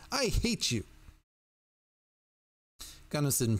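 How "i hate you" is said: very high-pitched hateful cry; restrained scream. A narrator's reading. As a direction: cry it out high, holding back the volume. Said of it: "she screamed".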